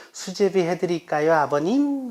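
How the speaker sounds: 아버님 lifted high at the end; daughter-in-law's question, pitch rising on 아버님. Shown as a demonstration. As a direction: raise the tail of 아버님 sweetly upward. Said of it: "끝을 들어라".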